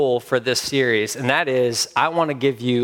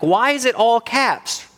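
pitched-up, puzzled protest; exasperated mock question; 9 semitones higher than usual. Texter's friend reacting to all caps, exasperated mock question. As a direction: imitate a baffled reader, voice jumping high. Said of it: "and you're like".

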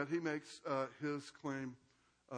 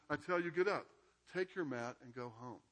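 Jesus speaking with real force; firm command. Acted. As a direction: give the order with authority. Jesus commands the paralyzed man.

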